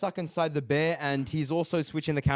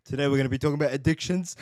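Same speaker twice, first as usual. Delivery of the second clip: mock serious host; 2 semitones lower, 3 dB louder, faster than usual. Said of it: "it went from us dying to".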